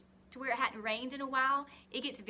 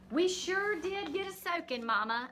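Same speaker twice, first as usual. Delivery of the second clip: put-on girl speaking to Mama; 7 semitones higher, 5 dB louder than usual. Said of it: "I say".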